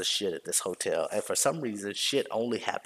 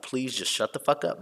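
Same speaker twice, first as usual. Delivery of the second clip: mildly exasperated, higher-pitched; higher, irritated plea, not shouted; 4 semitones higher than usual. Retold or imitated. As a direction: retell it with a touch of fed-up irritation. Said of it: "like, I'm irritated".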